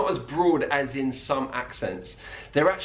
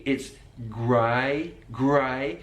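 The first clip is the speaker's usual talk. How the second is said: Brummie "grey" sliding to an I sound, like "gry"; Brummie vowel; much slower than usual. Shown as a demonstration. Teacher imitating Jack Grealish's Brummie "grey". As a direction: say "grey" in a Birmingham accent, like "gry". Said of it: "the way Jack Grealish says great".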